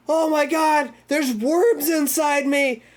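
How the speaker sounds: high, drawn-out horrified wail; mock screaming. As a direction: imitate someone screaming in panic. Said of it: "everyone's, like, screaming".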